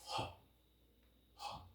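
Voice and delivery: "Ha" as a breathy glottal h, very soft; demonstrating the glottal sound. Shown as a demonstration. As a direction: breathe out the h from the throat. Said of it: "this is a glottal sound".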